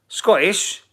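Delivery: high, disbelieving echo; can't believe what chat just said; incredulous. Real, not acted. Chat calls him Scottish, incredulous high echo.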